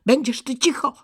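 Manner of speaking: high, loud angry scolding; irritated robber girl's outburst. A narrator's reading. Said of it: "mruknęła z gniewem".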